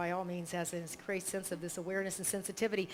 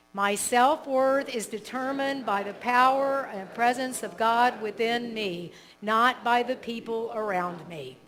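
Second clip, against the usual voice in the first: repeated affirmation; 6 dB louder, slower than usual. Shown as a demonstration. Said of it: "then you can repeat it together".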